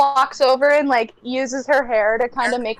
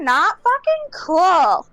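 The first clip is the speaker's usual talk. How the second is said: slow, raised scolding; disapproving; 5 semitones higher, 3 dB louder, slower than usual. Acted. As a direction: drag it out in disgust. Scolding the party.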